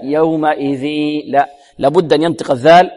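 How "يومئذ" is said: nasalised ذ in يومئذ; nasal from the dhal. Shown as a demonstration. Teacher showing a student's mistake, nasal ذ in يومئذ. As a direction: start the nose sound on the ذ of يومئذ. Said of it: "أو من الذال".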